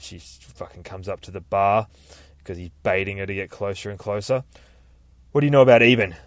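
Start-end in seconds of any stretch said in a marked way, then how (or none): 5.3-6.2 demanding sheriff. Acted. Stella confronts the prisoner.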